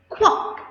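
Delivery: duck quack. Shown as a demonstration. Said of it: "the sound of the duck".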